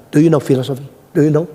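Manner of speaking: mildly challenging question. Retold or imitated.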